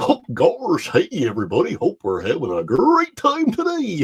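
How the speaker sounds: high sing-song voice with swinging pitch. Showing the impressions done in stand-up: Goofy voice.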